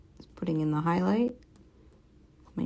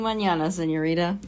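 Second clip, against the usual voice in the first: put-on Spanish accent. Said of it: "that was my Spanish accent".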